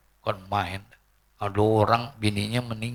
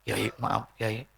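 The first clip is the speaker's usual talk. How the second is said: meek apology; 2 semitones lower, 10 dB quieter, slower than usual. Retold or imitated. Acted mourner apologising to kiai.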